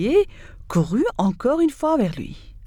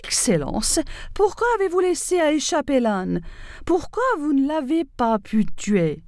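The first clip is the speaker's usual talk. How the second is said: higher-pitched fox crying out in frustration; 5 semitones higher than usual. Acted. Fox berating the lion over lost prey, crying out high.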